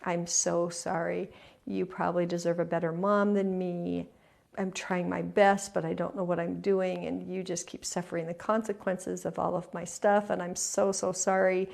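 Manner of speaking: grovel the apology a little; mother apologizing to her children, ashamed; shame-filled apology. Retold or imitated. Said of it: "I came in a lot of shame".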